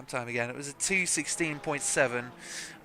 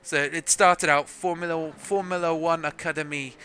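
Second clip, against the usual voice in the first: amateur French accent on the team name; clumsy French-accented announcement. Shown as a demonstration. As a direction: lightly put on a French accent. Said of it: "hear my French accent all the time".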